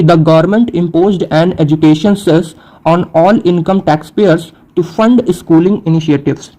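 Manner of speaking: slow, careful definition read aloud; deliberate teacher's dictation pace. Shown as a demonstration. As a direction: read each English word out slowly for students. Reads example sentence slowly.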